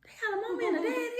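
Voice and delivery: high, fast, laughing disbelief; amazed child. Retold or imitated. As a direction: squeal it like a little kid who can't believe it. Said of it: "I was like".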